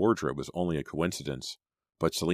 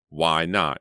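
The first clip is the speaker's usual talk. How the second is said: loud demanding snap; 5 dB louder than usual. Acted. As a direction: push back hard. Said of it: "he demanded".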